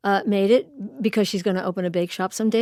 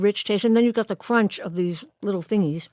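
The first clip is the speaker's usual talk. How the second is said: mouth full. Real, not acted. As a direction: talk around a bite of cake. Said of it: "pardon me for talking with my mouth full".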